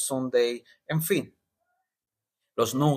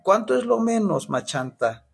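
haggling relative; 7 semitones higher than usual. Retold or imitated. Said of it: "que cómo le gusta regatear".

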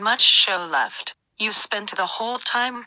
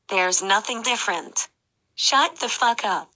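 changed voice. Acted. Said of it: "that was definitely fucking different".

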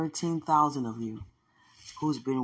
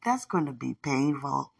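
angel's reply; 2 semitones higher, 3 dB louder than usual. Retold or imitated. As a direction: voice the angels playfully refusing. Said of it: "They were like".

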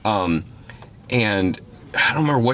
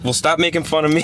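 high whining protest; mock whiny; 8 semitones higher than usual. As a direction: whine it back playfully. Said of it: "I'm like".

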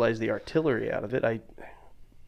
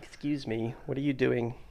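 annoyed ghost; 4 dB quieter than usual. Pretend. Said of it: "ghost hovering over going".

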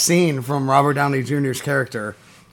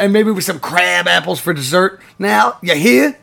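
imitating jive talk; 4 semitones higher than usual. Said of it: "he's like".

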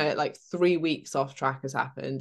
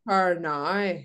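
drawn-out Northern Irish vowels; slow put-on Northern Irish accent; 3 semitones higher, 5 dB louder than usual. Shown as a demonstration. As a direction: demonstrate the Northern Irish "now", slowly. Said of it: "When they say "now".

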